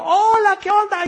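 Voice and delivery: hammed-up offhand hi; mock careless greeting. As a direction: toss off a slack hello like a bored teen. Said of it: "¿así llegas a tu casa, hijo?".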